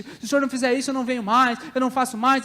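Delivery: mild mock tantrum; whining tantrum. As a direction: lightly imitate a childish ultimatum. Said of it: "é chorar, é espernear".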